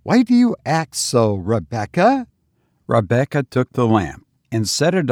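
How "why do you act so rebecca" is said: high, insistent questioning; almost fierce. A narrator's reading. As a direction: demand an explanation, pitch raised. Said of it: "asked Caroline almost fiercely".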